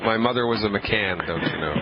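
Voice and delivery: put-on jokey amateur Irish accent; bad Irish accent. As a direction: toss it off in a badly faked Irish brogue. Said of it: "please excuse my bad Irish accent".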